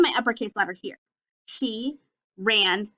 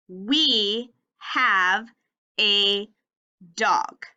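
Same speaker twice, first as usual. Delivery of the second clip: choral reading; 2 semitones lower, much slower than usual. Shown as a demonstration. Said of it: "Read it with me".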